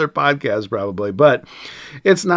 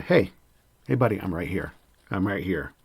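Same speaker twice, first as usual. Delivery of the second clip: quiet calming reassurance; 3 semitones lower, 5 dB quieter than usual. Retold or imitated. Calming pacing angry student.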